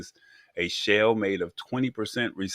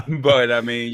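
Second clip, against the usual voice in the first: louder, through a real laugh; 6 semitones higher, 6 dB louder, slower than usual. Real, not acted. Cohost resumes after briefcase phone joke, laughing. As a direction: carry on talking while still laughing.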